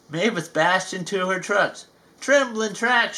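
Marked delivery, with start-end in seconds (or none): 2.2-3.2 mild fright. Acted. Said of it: "she cried".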